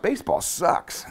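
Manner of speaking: breathy whispered inner thought, slow. Retold or imitated. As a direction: mutter it to yourself, fed up and slow. Inner thought while getting beaten.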